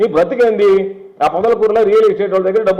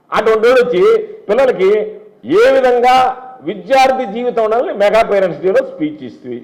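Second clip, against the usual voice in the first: angry outburst; 4 semitones higher than usual. Real, not acted. Politician lashing out at a rival MLA before the media, angry raised voice. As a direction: build the anger into a raised voice.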